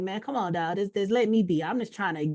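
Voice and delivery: half-joking begging to be left alone; begging rant. Retold or imitated. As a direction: plead with the market to leave you alone. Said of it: "I'm like, begging these people".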